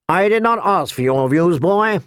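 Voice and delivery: cold. Acted. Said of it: "Riker said coldly".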